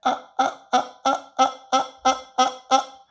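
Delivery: staccato ahs with fry edge; edgy vocal fry staccato. Shown as a demonstration. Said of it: "to give you even more edge".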